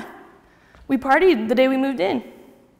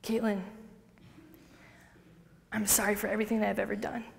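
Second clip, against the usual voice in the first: quiet apology; 2 semitones lower, 11 dB quieter than usual. Retold or imitated. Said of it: "I was like".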